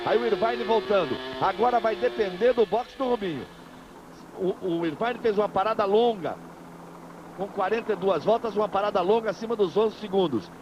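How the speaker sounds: brisk live race call; motorsport commentator. Real, not acted. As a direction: call the pit stops live, upbeat.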